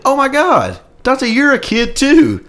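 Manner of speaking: squeaky high, slow kid impression; high mock kid voice. Imitating the kid who saw my socks, high and squeaky. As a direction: pipe it up high like a little kid. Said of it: "he was like".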